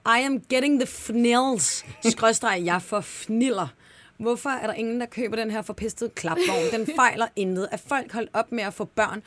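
indignant classified ad read out, slowing on the long words; dramatized ad reading. Acted. Host reads a seller's frustrated ad to listeners, dramatized reading.

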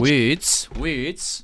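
imitated New Zealand accent. Host repeating the caller's word, New Zealand accent. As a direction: echo it in Kiwi vowels with a rise. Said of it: "trying to learn how to do".

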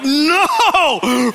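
high, loud, drawn-out wail; hammed-up anguished "no"; horrified no. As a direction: wail it in comic horror. Retold horror at the confession.

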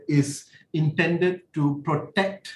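slow down and lean on "intended"; "intended" drawn out slowly to stand out; emphasis on INTENDED. Real, not acted. Lawyer explaining the Act's limits, emphasis on "intended". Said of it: "place emphasis on the word intended".

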